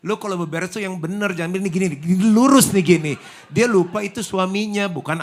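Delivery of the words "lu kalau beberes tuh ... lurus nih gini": high, loud scolding instructions; bossy nagging wife. Acted. Wife scolding husband over tidying, high bossy nag. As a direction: order him around like a child.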